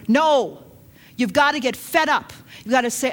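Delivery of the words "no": louder, sharp no; preacher calling out to the congregation; emphatic no. Real, not acted. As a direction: cut them off firmly. Preacher rejects half-hearted faith.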